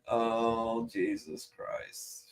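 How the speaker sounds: breathless hushed Jesus Christ; a slow, soft whisper of shock; whispered disbelief. Real, not acted. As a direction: mutter it under your breath, appalled. Appalled reaction to a joke.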